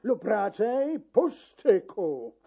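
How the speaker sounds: slow, stern scolding; mild angry shout. Acted. Chamberlain threatening the key-keeper, slow stern scolding. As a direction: warn him off, slowly and firmly. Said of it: "krzyknął".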